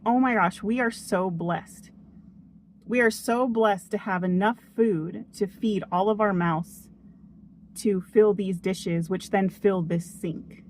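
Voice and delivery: grateful. Retold or imitated. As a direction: imitate the reframed, blessed mindset. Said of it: "started reframing that in my mind".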